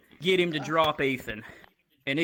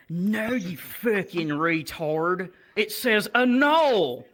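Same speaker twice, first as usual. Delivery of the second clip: mock angry retort; 3 semitones higher, 3 dB louder, slower than usual. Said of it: "And he's like".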